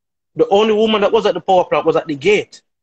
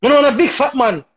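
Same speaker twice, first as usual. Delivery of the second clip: mock loud shout; 6 semitones higher, faster than usual. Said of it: "on top of her voice".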